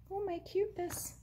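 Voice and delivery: squealing with delight over a cute craft. Real, not acted. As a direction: gush over something adorable, up high and soft. Delighted at finished bag.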